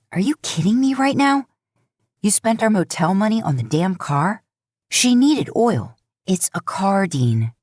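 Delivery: high, incredulous outburst; can't believe he spent the money; exasperated Sam. Acted. Sam berating Dean over the motel money, exasperated.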